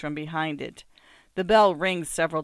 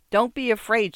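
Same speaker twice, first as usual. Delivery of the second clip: raised voice, higher and louder; shouting; 6 semitones higher, 5 dB louder than usual. A narrator's reading. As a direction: shout reassurance, not at full force. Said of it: "she shouts".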